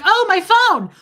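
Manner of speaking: loud, high wail; mock panic. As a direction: cry out over the ruined phone. Realizes the phone is soaked.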